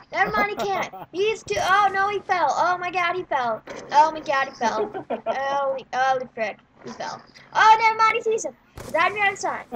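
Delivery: breathless running game commentary; lively sportscaster-style game call; live play-by-play. Real, not acted.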